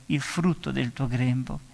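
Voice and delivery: hushed, slow repeat; soft slow echo. Real, not acted. Preacher echoing Elisabetta's blessing softly to savour it. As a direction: linger softly on il frutto del tuo grembo.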